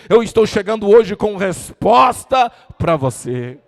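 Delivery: loud, building sermon delivery over music; full-force preaching. Acted. Preacher telling the grieving congregation the king sees them, loud. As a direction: preach it out to the whole church.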